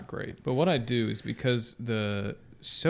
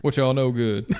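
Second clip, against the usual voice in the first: disguised dude voice; lightly disguised casual guy; out of mouth corner; 4 dB louder than usual. Pretend. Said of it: "Nice voice".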